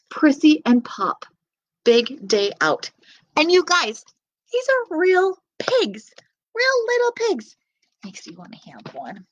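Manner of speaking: lively storybook reading voice; reading to children. Acted. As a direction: read it to little kids. Reads picture book to children.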